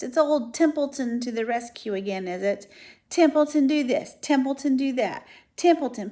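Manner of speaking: sarcastic, mocking the requests; disgusted mockery. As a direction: sneer out the list of orders. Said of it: "he said in disgust".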